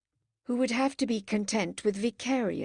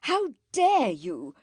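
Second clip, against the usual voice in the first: how dare you building to louder, slow; anger rising; 3 semitones higher, 3 dB louder than usual. Acted. Margaret rebuking her sister, anger growing. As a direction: let anger fill it. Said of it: "as anger filled her".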